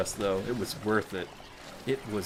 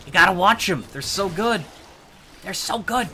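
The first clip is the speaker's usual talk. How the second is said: gushing; 8 semitones higher, 6 dB louder than usual. Real, not acted. Gushing recommendation.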